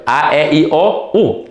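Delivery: lilting teacher's vowel drill; vowel recitation. Shown as a demonstration. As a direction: recite A, E, I, O, U like a classroom list. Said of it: "Let me repeat them".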